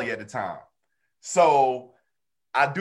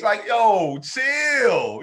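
mock pleading chill; 6 semitones higher, much slower than usual. Telling a touchy friend online to chill, high mock plea. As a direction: wave down an overreacting friend.

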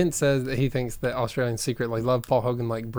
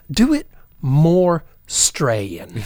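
mock director; 5 dB louder, much slower than usual. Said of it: "the director was sitting there and he's like".

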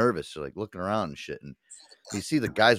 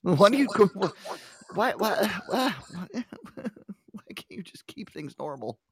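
whiny complaint; 13 semitones higher, slower than usual. Real, not acted. Complaining about the echo, laughing.

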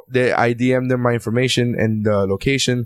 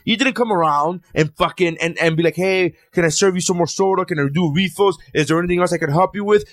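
higher-pitched, worked-up rant; real rage; 4 semitones higher than usual. Real, not acted. Ranting to friends about the server, really worked up. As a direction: vent it, pitched up and indignant. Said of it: "he's in rage".

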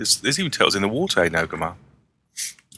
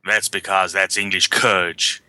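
mock English accent; slower than usual. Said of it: "And he also says".

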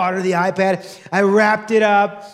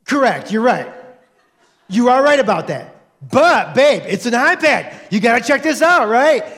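sheepish laughing plea; 2 semitones higher, 4 dB louder than usual. Retold or imitated. Husband to wife over the iPad, laughing and pleading. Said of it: "And I said".

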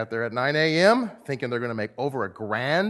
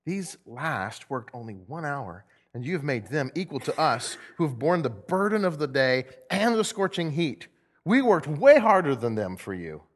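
grumbling worker; 2 semitones higher than usual. Acted. First group grumbling at the master of the house, indignant. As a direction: protest with growing indignation. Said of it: "they grumbled at the master".

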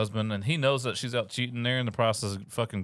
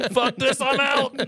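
high, loud, stretched yell; mock panicked exit; 6 dB louder, slower than usual. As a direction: cry it out like someone bolting. Partner fleeing the dog.

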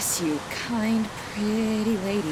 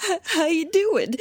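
sad; 5 semitones higher than usual. Acted. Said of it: "the sad man is very sad".

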